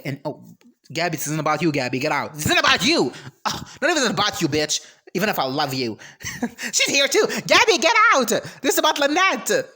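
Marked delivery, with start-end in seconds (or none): 2.3-9.6 higher and louder, laughing her off; playful scolding between laughs; laughing shoo. Real, not acted. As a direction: giggly get out. Shooing Gabby away, laughing.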